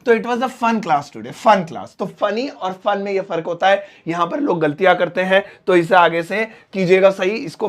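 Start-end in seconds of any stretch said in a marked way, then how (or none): 0.1-2.0 slow, careful, with "fun" clear; slow corrected sentence. Shown as a demonstration. Teacher slowly models the right sentence. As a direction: read "fun class" out slowly. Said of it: "तो यहाँ पे अच्छी थी".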